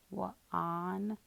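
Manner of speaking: "Wa-, on" said with a short ah, tentative; trying the short vowel. Shown as a demonstration. Teacher tries a wrong vowel to show the class, testing it. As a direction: test "Wa-, on" with a short ah as a wrong try. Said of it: "we hear that short ah sound".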